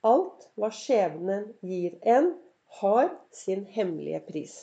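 "Alt hva skjebnen gir en" drawn out slowly with a rise on "en"; slow, weighty reading. Shown as a demonstration. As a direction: let each word of the quote land slowly. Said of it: "hør nå".

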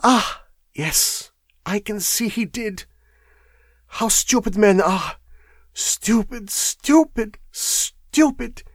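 high-pitched, scornful foreign woman; mock men's stupidity in a high foreign voice; scornful foreign wife. A narrator's reading. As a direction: repeat the insult with rising pitch.

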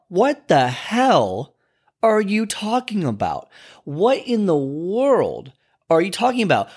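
slow, incredulous scolding of a friend; stretched out disbelief at a friend's excuse; blunt friend talk. Retold or imitated.

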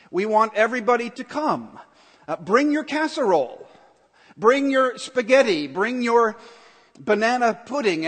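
hammed-up announcer inviting everyone to dinner; church announcement caller. Pastor mimicking a church phone invite, hammed-up announcer. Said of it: "you get a phone call".

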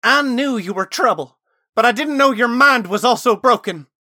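high, very loud accusing shout; angry woman's shout in narration. A narrator's reading. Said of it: "she shouted".

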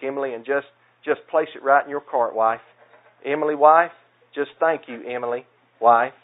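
lightly acted prayer, leaning on the repeated names; mock prayer voice. Husband asking his wife for milk, as mock prayer. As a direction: ask a small favour like a halting, repetitive public prayer. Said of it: "what it would sound like".

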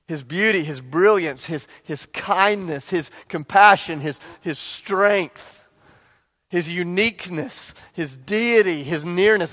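drawn-out, savoring each quality; reverent slow list. Acted. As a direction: linger on every word in awe. Slow list praising Jesus.

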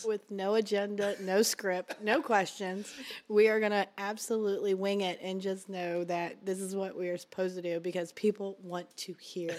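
husky, worn-out voice still raspy from the flu; raspy voice after flu. Real, not acted. Wife on their podcast, speaking in her raspy post-flu voice. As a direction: let the leftover flu rasp show. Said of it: "she's still dealing with a little bit of raspiness".

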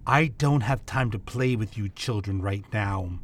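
cold, lofty voice of the woman in black; dismissive stranger. Acted. Woman in black dismissing the guards, lofty and cold. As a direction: brush them off like children.

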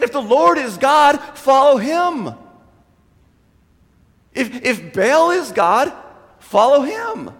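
a loud, slow prophet's ultimatum; stern challenge. Retold or imitated. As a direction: hammer it home to the crowd.

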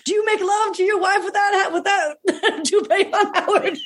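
high, laughing cheeky taunt; boxer trash talk. Pretend. A child mimicking a boxer's taunt at Howard, high and laughing. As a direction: needle Howard with a grin. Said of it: "trash talking".

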